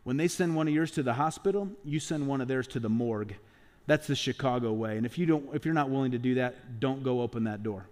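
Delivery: a hint of a grim veteran cop laying down the law; Sean Connery. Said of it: "And Sean Connery, the cop, tells him".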